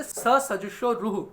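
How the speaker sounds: स सजुषो रुह said slowly, each syllable spaced out; slow sutra recitation. Shown as a demonstration. Teacher slowly recites the rule स सजुषो रुह for students. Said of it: "और किस सूत्र से".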